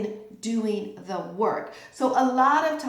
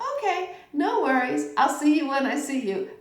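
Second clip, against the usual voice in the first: higher, quick and easygoing; breezy; 3 semitones higher than usual. Retold or imitated. Brushing off a cancelled lunch, breezy. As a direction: shrug it off lightly. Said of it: "But if you say".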